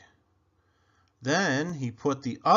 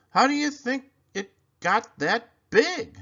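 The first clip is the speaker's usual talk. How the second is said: put-on much higher, louder boyish wonder; 11 semitones higher, 6 dB louder than usual. Desmond asks his brother in high-voiced wonder. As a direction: ask it wide-eyed like a small kid.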